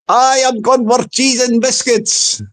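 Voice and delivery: lightly Scottish troll, deliberate; Scottish accent. Acted. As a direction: answer back with a touch of Scots. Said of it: "He sounds like a blooming Scotsman".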